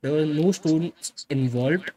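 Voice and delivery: each word stretched, hammering the point; slow emphatic repeat. Real, not acted. Streamer repeating the denial to chat, slow and deliberate. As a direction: repeat it slowly, no pressed heavily.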